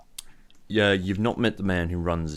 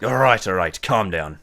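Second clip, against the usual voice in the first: firmer, slightly raised guard voice; hardened again; 5 dB louder than usual. Acted. Guard to angry pirate captain, hardening again. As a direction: push back, a touch of firmness. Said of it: "he, like, hardens again".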